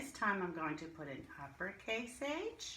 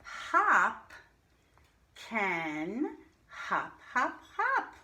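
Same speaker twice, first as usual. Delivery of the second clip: put-on lively read-aloud to young children; bouncy reading; 3 semitones higher, 7 dB louder, much slower than usual. Shown as a demonstration. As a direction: make the hops bounce for the kids.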